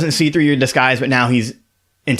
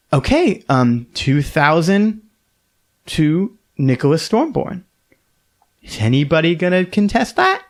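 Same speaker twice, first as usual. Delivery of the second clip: bright, higher auctioneer announcing the lot; 4 semitones higher than usual. Acted. Auctioneer announcing the winner to the room. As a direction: call the bid like a lady auctioneer.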